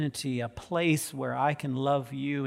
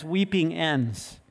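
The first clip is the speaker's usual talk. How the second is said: slow emphasis; slower than usual. Shown as a demonstration.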